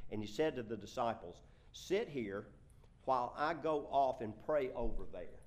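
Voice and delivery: firm, projected reading aloud; scripture reading. Acted. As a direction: read the verse out to a congregation. Reads scripture aloud to congregation.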